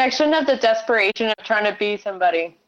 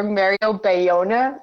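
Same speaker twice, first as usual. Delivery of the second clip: slow, anglicized "Mario Bayona"; English accent; slower than usual. Shown as a demonstration. Guest offers listeners her name in an English accent. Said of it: "like, an English accent".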